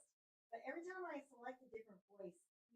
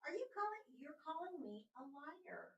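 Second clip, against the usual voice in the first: indignant; 6 semitones higher than usual. Real, not acted. Exasperated user confronting a stubborn AI assistant, indignant. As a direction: call out the insult in disbelief.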